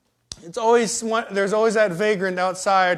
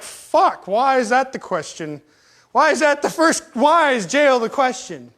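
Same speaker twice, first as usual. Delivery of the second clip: higher-pitched mock outrage, drawn out at the end; exasperated; 4 semitones higher, slower than usual. Man asked by kids about jail, exasperated. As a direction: protest the question in disbelief.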